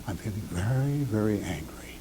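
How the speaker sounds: near whisper, low and soft; whispered calm. Shown as a demonstration. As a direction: hush the anger down to a breath. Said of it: "Lower your voice".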